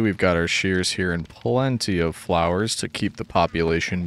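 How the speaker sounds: ordinary delivery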